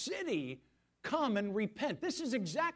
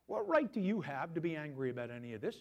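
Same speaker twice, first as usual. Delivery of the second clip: God calling out; 3 semitones lower than usual. Retold or imitated. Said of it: "He immediately says".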